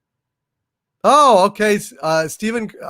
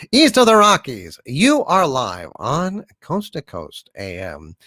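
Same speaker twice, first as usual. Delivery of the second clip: Art Bell; 2 semitones lower than usual. Retold or imitated. Answering a viewer's request, lightly voicing a late-night radio announcer. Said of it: "Art Bell doing that".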